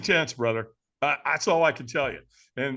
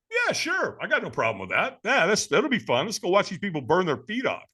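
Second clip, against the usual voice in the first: mock eager agreement; 3 semitones higher than usual. Retold eager agreement to just watch.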